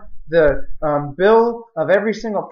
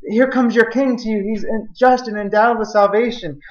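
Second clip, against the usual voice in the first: prophet's proclamation; 4 semitones higher than usual. Acted. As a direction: proclaim it like the prophet announcing a king. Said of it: "and the prophet says".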